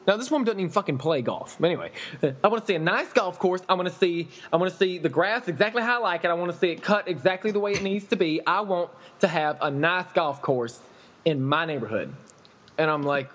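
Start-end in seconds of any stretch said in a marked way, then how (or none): 2.4-12.1 mock customer whine. Mimics the complaining customer.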